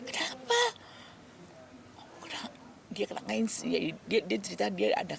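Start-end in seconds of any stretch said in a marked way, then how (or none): 0.1-0.6 surprised question. Retold or imitated. Retold shocked question. 2.0-2.5 breathy whisper of bad news; whispered confession. A daughter confesses her cancer diagnosis, whispering.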